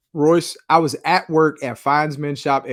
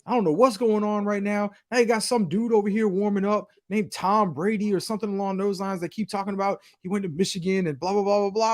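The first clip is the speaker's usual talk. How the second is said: imitating upset friend; 5 semitones higher, 4 dB quieter than usual. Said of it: "He's like".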